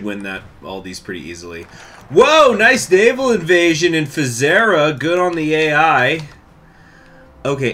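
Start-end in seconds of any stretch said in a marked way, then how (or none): 2.1-6.3 higher, louder, slow impressed whoa; excited. Real, not acted. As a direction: react with impressed delight. Impressed by AI invasion.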